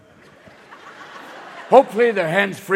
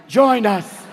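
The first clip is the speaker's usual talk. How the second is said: high, loud eerie chant; mock Borg; 7 semitones higher, 4 dB louder, much slower than usual. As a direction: lure them back to the collective. Borg calling Bluetooth wearer.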